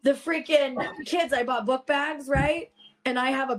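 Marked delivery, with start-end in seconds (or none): 0.0-1.3 slow, drawn-out sigh of frustration; exasperated. Real, not acted. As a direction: drag it out, fed up. Exasperated about her kids.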